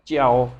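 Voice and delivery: च्याओ said with a ch sound, chyao; च्याओ in Chinese pronunciation; Chinese jiao. Shown as a demonstration. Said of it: "जियाओ नहीं बोलना इसे".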